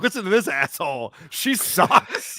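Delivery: scornful, the last words breathed out; mock trash talk. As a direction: sneer at a bad podcaster. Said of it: "go on your show and be like".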